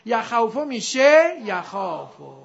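slow یخوفو with aw, then یخافو with long loud KHAA; sound-change demo. Shown as a demonstration. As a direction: stretch یخافو as ya-khaa-fu after ya-khaw-fu.

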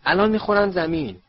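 high, loud alarmed cry; screaming. A narrator's reading. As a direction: shriek a warning of a crash. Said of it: "هرماینی جیغ زد".

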